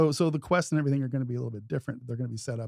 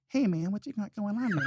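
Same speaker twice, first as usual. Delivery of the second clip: ogre's voice; 6 semitones higher than usual. Retold or imitated. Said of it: "and he's talking like that".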